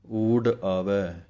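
ਊਡ ਆਵੈ slow, with ਊਡ pressed firmly; said a bit tightly. Shown as a demonstration. Teacher shows students the tight ਊਡ. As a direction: lean firmly into ਊਡ, unhurried. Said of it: "ਥੋੜ੍ਹਾ ਕੱਸ ਕੇ ਬੋਲਣਾ ਹੈ".

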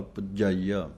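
ਪੁਜਾਈਆ with a tight, doubled ਜ; doubled consonant. Shown as a demonstration. Teacher showing students the addhak in ਪੁਜਾਈਆ. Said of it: "ਥੋੜ੍ਹਾ ਜਿਹਾ ਕੱਸ ਕੇ ਬੋਲਣਾ ਹੈ".

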